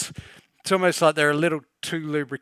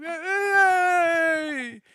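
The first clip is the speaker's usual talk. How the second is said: mock cry; 13 semitones higher than usual. Confused frontman pointed at, called out.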